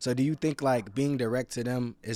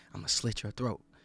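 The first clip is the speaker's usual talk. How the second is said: acted-out whisper, lower and quieter; 2 semitones lower, 5 dB quieter than usual. Retelling his point about someone coming up close, acting out a whisper. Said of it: "whispered to you like".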